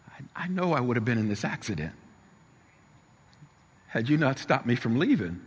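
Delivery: imitating a shaken, tearful son; halting, with a touch of tears and a long pause; tearful, trembling. Son realising his father saved him, tearful. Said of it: "with a tearful, trembling voice".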